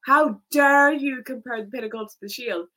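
mild mock yell of indignation. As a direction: ham up an offended fan's outrage. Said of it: "he is like".

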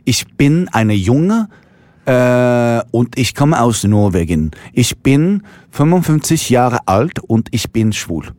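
put-on slow, deliberate Norwegian-accented German; mock-earnest schoolbook German; playful German. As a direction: recite like a beginner's German introduction, slowly. Playful self-introduction in schoolbook German.

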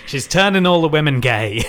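laughing through the joke; giggling while joking. Real, not acted.

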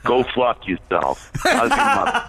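mock tough guy. Mock insult bit.

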